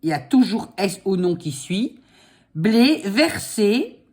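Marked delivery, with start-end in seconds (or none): 2.6-4.0 dictating. Shown as a demonstration. Dictating slowly.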